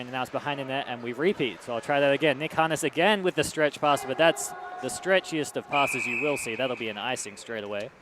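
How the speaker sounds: brisk hockey play-by-play, quickening with the action; live play-by-play. Acted. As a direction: call the game as it happens.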